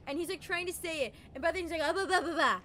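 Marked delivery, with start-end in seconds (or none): 1.8-2.6 mangled name. Retold or imitated. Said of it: "by the end of saying my name".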